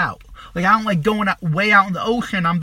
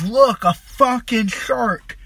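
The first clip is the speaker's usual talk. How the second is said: drawn-out, higher-pitched retold yell; mock yell; 5 semitones higher, 4 dB louder, much slower than usual. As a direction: imitate a friend yelling an alarm, slowly stretched. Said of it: "he yells".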